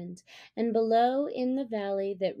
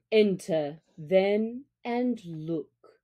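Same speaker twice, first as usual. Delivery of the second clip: stiff; 2 semitones lower, slower than usual. Acted. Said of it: "said Father Wolf stiffly".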